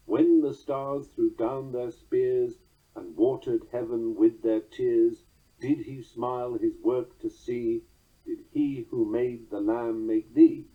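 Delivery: slow, measured recitation of verse; poem reading. Acted. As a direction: let each stressed beat land, unhurried. Reads penultimate stanza aloud.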